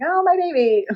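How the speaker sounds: high-pitched hammed-up mother's cry; imitating a frantic, doting mother; mock freaking out. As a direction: gush over a lost child, exaggerated. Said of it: "freaking out and being like".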